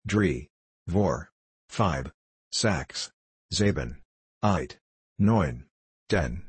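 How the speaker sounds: put-on Dutch-accented counting. A narrator's reading. Small watches answering the bell in Dutch accent. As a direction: count like the little Dutch repeaters. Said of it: "answered the others".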